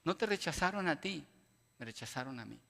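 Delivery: a hint of tender divine comfort; God comforting Samuel. God consoling sad Samuel, soft and gentle. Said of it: "Y Dios le dice".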